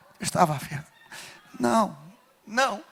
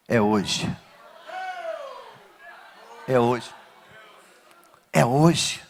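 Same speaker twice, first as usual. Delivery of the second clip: much lower and softer, almost breathed; hushed; 6 semitones lower, 10 dB quieter, slower than usual. Acted. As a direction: let the words sink in, quietly. Quiet reprise of phrase.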